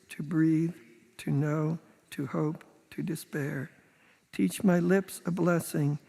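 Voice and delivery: solemn, measured prayer reading. Acted. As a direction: read it like a congregational prayer. Reads a responsive prayer aloud.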